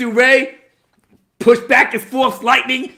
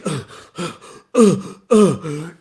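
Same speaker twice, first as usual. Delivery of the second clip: short effortful grunts; mock labored grunting; struggling grunts; 5 semitones lower than usual. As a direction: grunt as if straining to get up. Acting out Palpatine's struggle.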